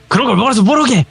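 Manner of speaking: a snapping grandma, hammed up; angry grandma. Village grandma snapping at the curious guest, mock angry. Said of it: "이러는 거예요".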